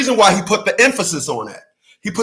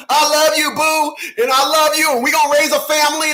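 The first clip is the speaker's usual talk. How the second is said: mock sweet talk; 6 semitones higher than usual.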